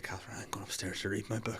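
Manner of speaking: hushed, whispered mock composure; holding back tears. Retelling excusing oneself to Catherine, tearfully hushed. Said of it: "feel the tears going down my face".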